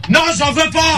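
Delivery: refus agacé, voix plus haute; exaspéré. Real, not acted. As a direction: refuse net, excédé, en montant la voix. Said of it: "j'en ai marre". (exaspéré, à bout de patience)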